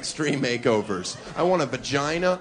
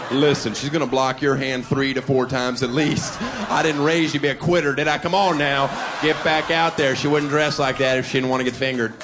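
father's pep talk; 3 dB louder than usual. Retold or imitated. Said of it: "a father should give his son".

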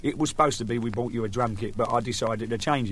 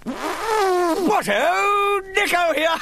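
bright, high cheery hello; jolly radio host shouting his hello; hearty show greeting; 4 dB louder, much slower than usual. Acted.

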